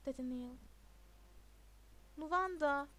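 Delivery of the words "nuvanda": Nuvanda said firmly and louder; reminding. A narrator's reading. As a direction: remind him with a raised Nuvanda. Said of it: "diye hatırlattı Charlie".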